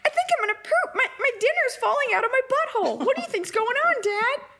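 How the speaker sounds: very high squeaky pet voice; innocent dog voice. Acted. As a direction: pipe up like a clueless little dog. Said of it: "we do this voice".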